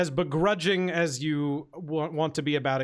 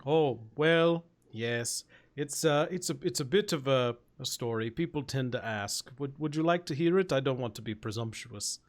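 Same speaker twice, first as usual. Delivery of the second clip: lightly voiced genteel ogre, tentative; polite ogre, hesitant. Ogre offering his story to a newcomer, politely hesitant.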